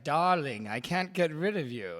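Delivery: lightly voiced exasperated film star, pitch lifted; Elizabeth Taylor. Co-host playing the star pestered by a reporter, mock exasperation. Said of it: "She's like".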